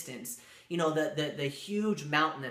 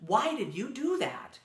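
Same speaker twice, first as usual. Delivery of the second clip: mildly stunned, higher-pitched questioning; lightly acted shocked protest; shocked student; 4 semitones higher than usual. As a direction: retell a student's disbelief, pitch lifting on the questions. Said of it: "the student right away is just in shock".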